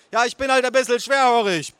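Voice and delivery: high, strained holler; bellowing aunt. A narrator's reading. Aunt admitting poor hearing, bellowing. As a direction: holler like someone hard of hearing. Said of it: "brüllte meine Tante".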